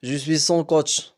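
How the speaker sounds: lightly put-on American accent. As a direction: coach speaking French with a hint of American accent. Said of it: "dit-elle avec un accent américain".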